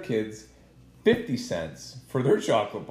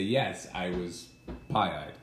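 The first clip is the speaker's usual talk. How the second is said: put-on low, slow sloppy drunk; 7 semitones lower, 7 dB quieter, much slower than usual. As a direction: drag it out like you're tipsy. Imagined drunk confession quote.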